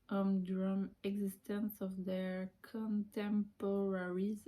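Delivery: reads the English slowly, word by word; slow careful English reading. Shown as a demonstration. Reading the English blurb to viewers, slow and careful. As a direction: sound out each English word with care.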